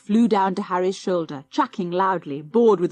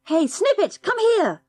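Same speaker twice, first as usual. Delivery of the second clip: much higher, carrying call; 11 semitones higher, 3 dB louder than usual. A narrator's reading. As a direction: call down into the burrow for the dog. Calling the dog down the hole.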